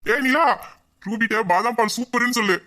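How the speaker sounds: calling out. Acted. Man calling a compliment back to her, calling out. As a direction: sing out the message to her.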